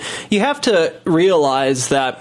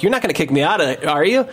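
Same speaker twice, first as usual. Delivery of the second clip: rushed, mildly worried plea; nervous, quick appeal acted out; retold panic; 2 semitones higher, faster than usual. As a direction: hurry through it, lifting the final question. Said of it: "kinda panicking now".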